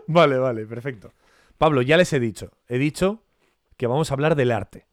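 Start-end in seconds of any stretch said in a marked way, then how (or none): 0.1-1.1 laughing. Real, not acted. Laughing at cereal confession.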